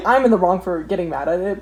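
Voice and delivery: laughing while talking. Real, not acted. Vlogger laughing at herself mid-sentence. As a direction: giggle through the words.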